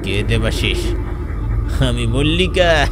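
understated voice of a possessing spirit; restrained ghostly outcry; possessed cry. Acted. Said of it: "চিৎকার দিয়ে উঠল".

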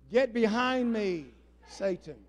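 slow and loud rebuke leading the crowd; rebuke with congregation. Shown as a demonstration. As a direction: lead everyone in rebuking Satan. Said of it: "Say it with me".

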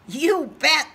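high, slow lamb voice. Acted. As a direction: bleat it out gently. Lamb speaks.

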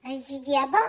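a quirky small-business lady complaining to a friend; Germaine character voice. Acted. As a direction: play a fussy chatty seamstress. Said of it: "c'est toute Germaine".

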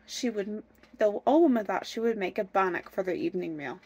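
animated storybook reading; story narration. A narrator's reading. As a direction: tell the chase like a fairy tale. Reads fairy tale aloud.

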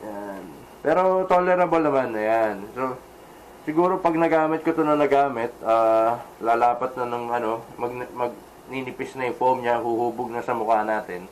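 muffled through helmet chin bar; speaking inside a helmet. Real, not acted. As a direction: voice behind full-face helmet. Seen 0: Full-face helmet worn over mouth throughout; R frames show no helmet.

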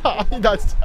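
ordinary talk, nothing marked

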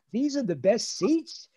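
put-on disbelieving kid, rising at the end; incredulous question. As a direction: question the seats in mild disbelief. Child doubting dad's claim about seats.

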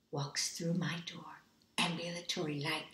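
voiceless, hushed awe; whispered awe at the light; awed whisper. Retold or imitated. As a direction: breathe it out in wonder. Awe at vision.

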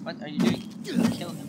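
yelled high in alarm; panicked shout. Real, not acted. Panicked call to teammate.

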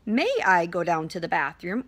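politely asking permission in a calm voice; gentle, courteous model request; calm and pleasant. Shown as a demonstration. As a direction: ask nicely, calm and unhurried. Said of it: "use a calm and pleasant voice".

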